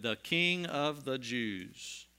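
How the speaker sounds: slow, deliberate reading of "King"; inscription read slowly. Acted. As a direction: read the sign word by word. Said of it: "the inscription of the charge against him read".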